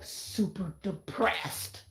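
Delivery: super depressed. Retold or imitated. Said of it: "me, when I'm on my period".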